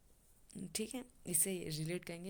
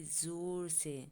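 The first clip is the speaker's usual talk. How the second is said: slow emphasis; much slower than usual. Shown as a demonstration. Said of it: "ज़ोर से चिल्लाई".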